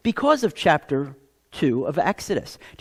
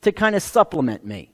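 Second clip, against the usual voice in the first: bargaining with God; 5 semitones higher, 5 dB louder than usual. Retold or imitated. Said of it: "And you say".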